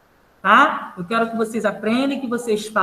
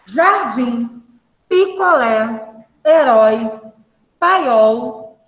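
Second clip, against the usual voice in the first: slow, deliberate list with pauses between words; word-list reading; much slower than usual. Shown as a demonstration. Teacher continuing the reading for pupils, deliberate pronunciation. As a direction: read each word separately, drawing out the stressed ending. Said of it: "vou continuar a leitura aqui".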